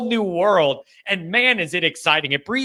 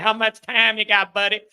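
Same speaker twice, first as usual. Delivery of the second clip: put-on Southern accent; 3 semitones higher than usual. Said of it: "when I had that Southern accent".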